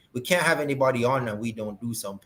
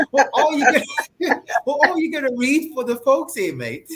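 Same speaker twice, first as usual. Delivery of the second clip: put-on laughing British accent, higher; playful put-on British accent; 10 semitones higher, 4 dB louder than usual. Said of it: "I'm gonna give you my British accent, innit?".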